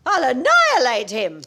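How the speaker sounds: loud vengeful vow; furious threat. Acted. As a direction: promise to destroy him.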